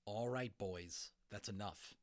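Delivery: a touch of a father ending the fight; calm but firm, closing the matter. Acted. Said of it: "in his father's firm end of the fight voice".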